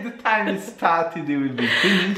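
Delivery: talking through a mouthful; words round a bite of marshmallow; mouth full. Real, not acted. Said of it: "Babe, why are you eating?".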